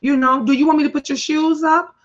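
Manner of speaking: sweetly cajole the sister, quickly; lightly imitating siblings. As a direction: siblings coaxing a moody sister, lightly voiced. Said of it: "And they would say".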